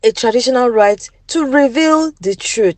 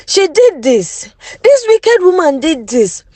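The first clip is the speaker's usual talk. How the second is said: higher, mock accusing scream; 6 semitones higher than usual. Jealous wife blaming the other wife, mild mock scream. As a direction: point the finger, a hint of a scream. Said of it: "she screamed".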